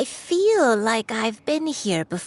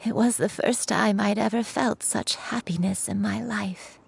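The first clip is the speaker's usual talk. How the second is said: tender whisper. Acted. Grandmother telling Shuyu about her father's birth, whispered tenderly. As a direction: hold the happiness close and hush it.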